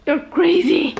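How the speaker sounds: high, loud teasing exclaim; playful shout. Real, not acted. Vlogger teases her pet with a loud playful shout.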